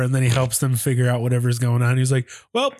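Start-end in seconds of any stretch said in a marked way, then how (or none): 2.5-2.7 casual impression in a higher voice; half-trying actor impression, pitched well up; John Ratzenberger. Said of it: "That's a fairly good John Ratzenberger".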